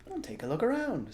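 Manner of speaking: hint at a secret; sly fox father. A narrator's reading.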